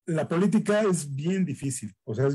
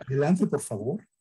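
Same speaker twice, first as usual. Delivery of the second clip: imitating a girl. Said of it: "soy como una chica".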